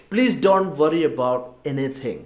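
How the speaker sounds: very slow, every word spaced out; slow model phrase. Shown as a demonstration. Teacher modelling a mother's advice, very slow. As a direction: say it slowly for learners to copy. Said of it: "ഒന്നുകൂടെ പറഞ്ഞു നോക്കാം".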